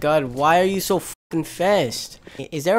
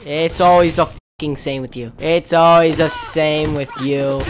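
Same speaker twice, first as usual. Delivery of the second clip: angry; 5 semitones lower than usual. Real, not acted. Raging at teammate in game.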